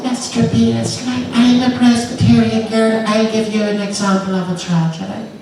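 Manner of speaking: put-on high, soft Ulster girl; little girl voice. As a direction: pipe up like a wee girl.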